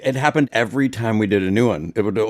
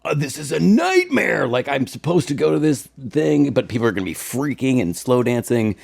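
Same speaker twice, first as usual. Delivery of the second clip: put-on anxious teen; 6 semitones higher than usual. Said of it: "I would be like".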